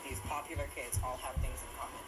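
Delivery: tinny phone recording; recorded on a phone; low quality stream. Real, not acted. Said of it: "Sorry about the bad quality of the audio".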